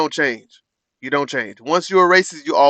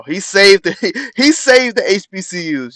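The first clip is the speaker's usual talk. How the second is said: laughing; 6 semitones higher, 5 dB louder than usual. Real, not acted. Streamer laughs at the speech.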